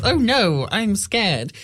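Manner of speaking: high, hammed-up fright; lightly faked terror, starting high; mock scared woman. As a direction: squeak it out like a scared film victim, jumping up high. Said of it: "the scared woman goes".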